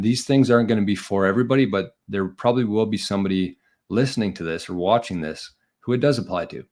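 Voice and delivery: breathless, winded delivery; out of breath. Real, not acted. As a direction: talk while short of breath. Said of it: "I'm out of breath".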